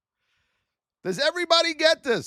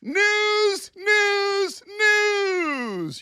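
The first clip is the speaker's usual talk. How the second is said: mocking hype; 6 semitones higher, much slower than usual. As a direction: ham up the news frenzy. Mocking hype over news.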